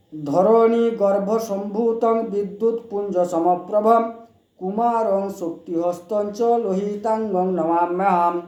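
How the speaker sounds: slow, drawn-out chanted Sanskrit; slowly recited. Shown as a demonstration. Repeats the Mars mantra slowly for viewers to learn. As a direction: say each word slowly so listeners can repeat. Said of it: "আমি আস্তে আস্তে বলছি".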